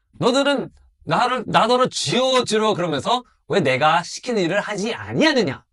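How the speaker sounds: voice of the Lord. Acted. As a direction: speak as God rebuking his servants. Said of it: "주께서 하시는 말씀입니다".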